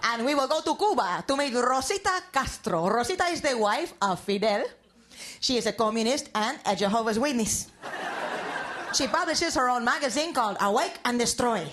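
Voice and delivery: mock a dramatic evening news intro; news host spoof.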